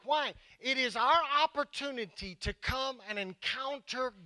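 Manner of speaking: emphatic preaching. Real, not acted. Pastor explaining why Sundays matter, emphatic preaching. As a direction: press each point on the congregation.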